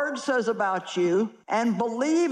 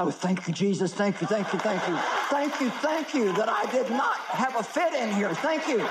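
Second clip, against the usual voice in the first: inner thanks. Retold or imitated. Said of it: "And I thought inside".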